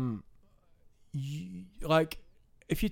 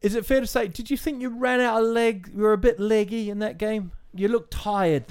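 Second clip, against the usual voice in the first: lightly played sports interviewer, a bit higher; mock TV interviewer; 4 semitones higher than usual. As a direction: ask like a pundit after the match, tongue in cheek. Mock post-match interviewer.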